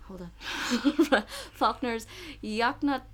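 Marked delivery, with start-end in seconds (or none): 1.5-3.0 Yakna- slowly sounded out and cut off; slow careful pronunciation. Real, not acted.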